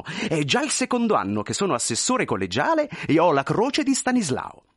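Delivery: lively, swooping character voice; eager chatter dotted with little hesitations; chattering thin man, self-deprecating. Acted. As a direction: report a modest career to an old friend. Thin man recounts his modest career.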